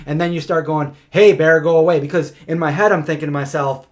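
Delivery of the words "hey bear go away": calling out. Retold or imitated. Calling out to bear from tent.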